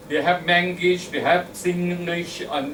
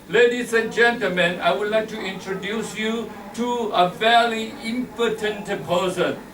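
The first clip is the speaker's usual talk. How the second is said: higher-pitched mock introduction, stately announcing; imitated event hostess; 4 semitones higher than usual. Lady introducing a speaker at a club event, announcer's imitation. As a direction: introduce a guest like an emcee, pitched up. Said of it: "and the lady standing up".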